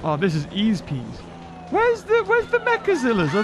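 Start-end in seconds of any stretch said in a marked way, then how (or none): 1.7-3.3 high puzzled call. Real, not acted. Searching for missing enemies.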